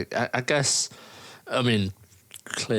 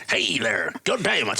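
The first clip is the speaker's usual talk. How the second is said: put-on Southern US accent.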